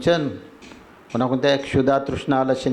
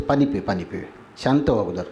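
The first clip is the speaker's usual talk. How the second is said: calming; 6 semitones lower than usual. Acted. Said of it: "दे त्याला पाणी".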